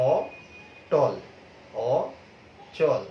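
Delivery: অটল and অচল drawn out very slowly with an open ɔ; slow open o demo. Shown as a demonstration. Teacher to students, modeling: অটল, অচল with slow open ɔ. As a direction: stretch each word, opening the ɔ. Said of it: "অ কিন্তু অ এর মতো উচ্চারিত হচ্ছে".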